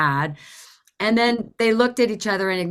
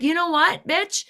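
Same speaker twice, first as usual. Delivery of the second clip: higher-pitched, indignant warning; mock-angry threat; 5 semitones higher than usual. Driver to the woman on the hood, exasperated threat. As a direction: warn her off with rising exasperation.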